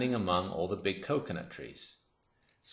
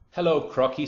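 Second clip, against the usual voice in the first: monkey's greeting; 8 semitones higher, 7 dB louder than usual. A narrator's reading. Monkey greets the crocodile in story.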